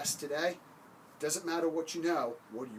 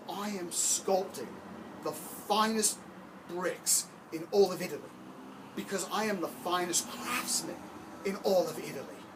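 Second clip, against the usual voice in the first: swelling with pride over the finest bricks; proud craftsman; 4 semitones higher than usual. Acted. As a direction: puff up and proclaim your own greatness. Proud worker boasts about his bricks.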